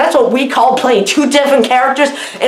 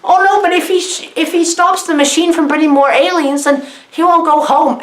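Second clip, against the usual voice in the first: mock worry; 5 semitones higher than usual. Retelling panicked character dilemma.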